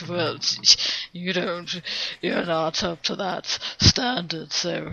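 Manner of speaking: lightly put-on snooty elitist; pompous voice. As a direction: look down your nose, softly. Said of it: "that was my pompous voice".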